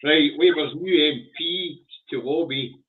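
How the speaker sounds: slow, halting read of a headline; cold read stumbling. Real, not acted. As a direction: stumble through the words. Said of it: "Sorry, let me start that again".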